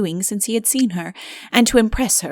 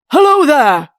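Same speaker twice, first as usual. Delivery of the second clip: loud and high, calling through the door; bellowing; 6 semitones higher, 8 dB louder than usual. A narrator's reading. King bellows to the sentry outside his door, loud call. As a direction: bellow it out to the guard. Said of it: "he bellowed to the sentry".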